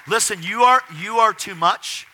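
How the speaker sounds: high, loud, emphatic rebuke; exasperated scolding. Retold or imitated. Staff telling him to tone it down, exasperated. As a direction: drag out the scolding with force.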